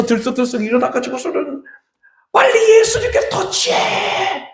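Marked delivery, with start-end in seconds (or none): 2.3-4.5 high, drawn-out spectator's yell; acted crowd cry, pitched way up; urgent shouting. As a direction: shout urgent instructions from the stands. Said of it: "이렇게 외치고 있는 거예요".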